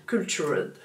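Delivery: English brand name said with a heavy French accent; bad French accent. Real, not acted. A French vlogger reading an English lipstick name, French accent. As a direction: read the English word the French way, self-mockingly. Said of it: "Avec mon accent de merde".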